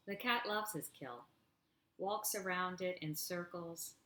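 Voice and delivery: slow, drawn-out poetry recital; unhurried poet's cadence; poem reading. Acted. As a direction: linger over each line of verse.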